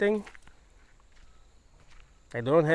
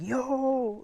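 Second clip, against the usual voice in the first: imitated local scream; 10 semitones higher, 4 dB quieter than usual. Showing how local people scream, half-hearted high yell. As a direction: imitate a scream without really shouting. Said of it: "like, when they scream".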